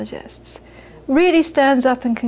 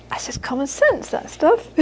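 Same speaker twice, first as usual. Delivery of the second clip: lightly voiced dismissive mother; mother shrugging off; 4 semitones higher, 3 dB quieter than usual. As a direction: brush it aside casually. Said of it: "She'd say".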